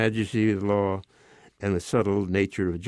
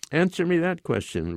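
higher-pitched, mildly insistent demand; 7 semitones higher than usual. A narrator's reading. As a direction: press firmly for an answer. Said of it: "Reggio demanded".

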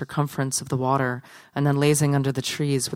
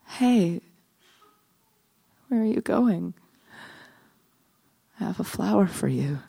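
higher, plaintive calling after someone; hurt calling after; 5 semitones higher than usual. Acted. Living statue to a passerby walking away, hurt calling after. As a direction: call out in dismay, pitch lifted.

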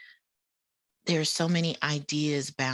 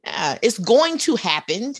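laughing; 6 semitones higher, 6 dB louder than usual. Real, not acted. Laughing while explaining fixing to.

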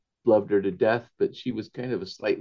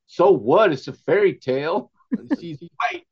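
a touch higher, shrugging so what; defiant nephew; 7 semitones higher, 4 dB louder than usual. Retold or imitated. Nephew answering the family, lightly voiced and defiant. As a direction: brush it off like a cocky nephew. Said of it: "he says".

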